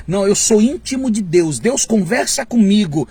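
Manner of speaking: a hint of smug superiority; air of superiority. Preacher mocking a prophet's superior tone. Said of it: "ar de superioridade".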